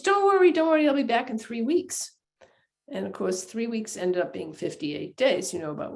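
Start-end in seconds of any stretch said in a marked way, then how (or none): 0.0-0.5 high, loud soothing brush-off; reassuring husband. Retold or imitated. Henry soothing his worried pregnant wife, high reassurance. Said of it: "And he says". 0.5-2.1 lightly raised, easy promise; reassuring husband. Retold or imitated. Henry promising his wife a quick return, mild reassurance. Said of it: "And he says".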